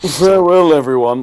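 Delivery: exaggerated, very high-pitched, poshest possible voice. Saying goodbye at the end of the show in the poshest possible voice. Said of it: "say goodbye in your poshest possible voices".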